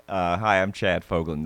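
an understated, ordinary-guy superhero voice. Pretend. Co-host introducing himself in a low-key superhero voice. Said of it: "That's my superhero voice".

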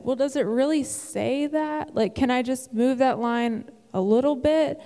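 lightly acted pleading doubt; doubtful questioning. Voicing own past doubting questions.

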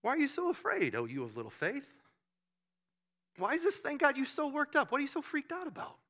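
soft, unruffled questioning; mild, quiet reproof; calm Jesus. Acted. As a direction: ask gently, untroubled by the uproar. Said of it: "He was more like".

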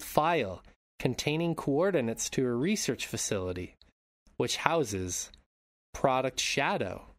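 measured recap read with lively peaks; synopsis read-out. Acted. Podcast host reading the mid-credits scene to co-host, measured read-out. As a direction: read out a plot summary in deliberate phrases.

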